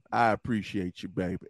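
soft low affectionate thanks; tender. Real, not acted. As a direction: say it gently to her. Repeat softer.

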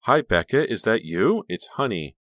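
bright-eyed caller, high and loud; high-pitched, loud, keen hello; eager greeting. A narrator's reading. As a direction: greet a friend eagerly on the phone. Eager friend phoning Becca.

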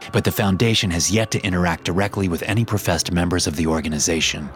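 measured, formal report reading; steady archive report voice; document read. Acted. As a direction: read it like a clinical file entry. Reads the SCP document.

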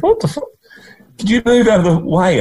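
a half-joking call across the road; calling back. Retold or imitated. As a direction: shout back in mock exasperation. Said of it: "I went".

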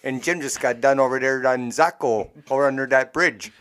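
put-on Yooper bar regular passing on news; mock Yooper small talk; Yooper accent. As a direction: gossip in a broad Yooper accent. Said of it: "just talk like that".

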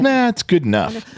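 high, careless mock teen voice; mocking the kid. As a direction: toss it off like a lazy teenager. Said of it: "the kid just does shit like that and goes".

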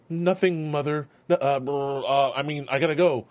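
lightly voiced flustered lying teen; nervous bad liar. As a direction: stammer out a guilty excuse. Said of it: "the worst liar ever".

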